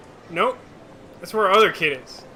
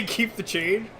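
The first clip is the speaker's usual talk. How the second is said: incredulous echo; 6 dB quieter, slower than usual. Real, not acted. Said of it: "They hand him a twenty".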